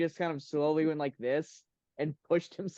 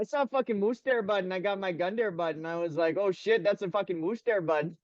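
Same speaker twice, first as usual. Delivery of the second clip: a light mock Canadian hunter; Canadian accent. Continuing the Canadian bit, mock Canadian accent. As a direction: play a hoser spotting a moose. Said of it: "we could do Canadian pretty well".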